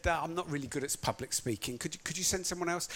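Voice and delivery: nervous excuse. Acted. Moses making excuses to God.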